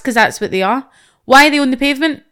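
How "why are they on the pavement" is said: indignant rant. Real, not acted. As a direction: hammer the question home, fed up. Ranting at cyclists on pavement.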